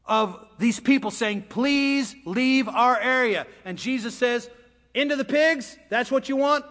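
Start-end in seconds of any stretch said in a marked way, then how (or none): 1.5-3.5 slow, raised, drawn-out plea; begging. Acted. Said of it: "there was a begging of these people". 5.0-6.6 high, incredulous check; questioning the request. Acted. Jesus questions the demons' request.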